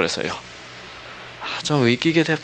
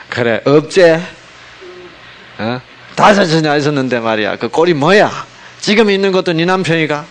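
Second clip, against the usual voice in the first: loud, high-pitched accusatory interrogation; scolding misreading; 4 semitones higher, 5 dB louder than usual. Shown as a demonstration. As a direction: read it like you're berating her. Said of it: "잘못 읽으면 이렇게 읽어요". (다그치고 비꼬듯 크게)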